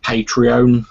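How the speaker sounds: "Patreon" drawn out slowly, ending in a long "-ohn"; unsure pronunciation. Real, not acted. Asking how a site name is said, unsure pronunciation. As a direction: try "Patreon" slowly as PAY-tree-OWN. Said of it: "I don't know how it's pronounced".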